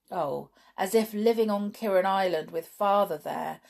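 put-on scornful girl rejecting a hopeful suggestion. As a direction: sneer at the very thought. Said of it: "said George scornfully".

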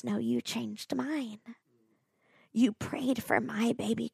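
tearful. Retold or imitated. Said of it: "with tears streaming".

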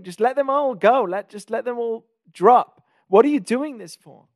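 a worn-out Moshe begging God, building to a near shout; Moshe giving up. Retold or imitated. Moshe, weary of Pharaoh, pleads with God, rising to an exasperated cry. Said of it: "Moshe could be easily giving up and say".

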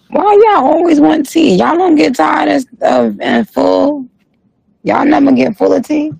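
very high-pitched, incredulous questioning; mock exasperation. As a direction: scold the fans in a squeaky high pitch. Scolds viewers always wanting gossip.

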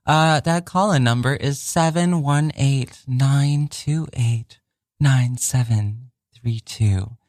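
slow smooth radio announcer read; sexy radio voice. Shown as a demonstration. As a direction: purr it like late-night radio copy. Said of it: "I was using my, like, sexy, uh, radio copy voice".

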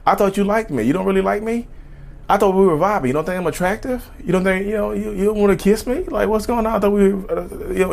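guilt-trip them into a kiss; pushy date. Acted. Date pressuring after refusal, pleading. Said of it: "If they say".

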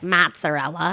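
Chicago accent. Shown as a demonstration. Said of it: "heavy Chicago accent".

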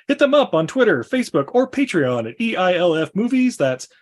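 hammy radio ad read. Acted. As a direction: sell it like an old radio spot. Mock sponsor ad read.

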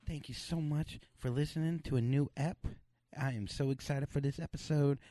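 soft, put-on host voice; odd hushed voice. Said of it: "I don't know why I'm talking like this".

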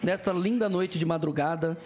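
slow, measured announcement; slow ceremonial delivery undercut by swearing; mock-solemn message. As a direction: draw it out like a formal dedication. Starts a message to his wife.

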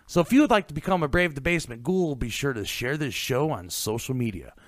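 brisk podcast plug with lively line openings; rehearsed host's promo patter; scripted outro read. Acted. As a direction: read the show plugs like a practised announcer. Host reads scripted show outro.

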